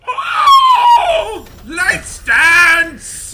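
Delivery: shrieking, shell-shocked high shout; pterodactyl screech. Retold or imitated. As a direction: screech it out like a dazed villain. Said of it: "sound like a pterodactyl screech".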